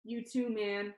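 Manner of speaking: muffled from off to the side; faint, muffled reply. Acted. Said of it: "A muffled".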